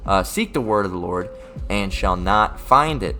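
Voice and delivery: scripture reading. Acted. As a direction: read the verse out deliberately, stretching key words. Reads scripture aloud.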